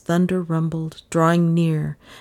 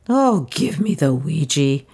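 heartbroken. Acted. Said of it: "said Lizzie in tones of heartbreak".

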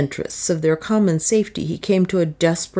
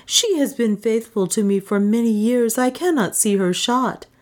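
high-pitched, earnest plea; pleading; 6 semitones higher than usual. A narrator's reading. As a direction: plead for another's life. Juana pleads for Soa's life.

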